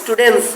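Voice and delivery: স্টুডেন্টস ending in -ens, no T; teacher's model of স্টুডেন্টস, T left out before S; silent T in plural. Shown as a demonstration. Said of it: "সেখানে উচ্চারণটা হবে".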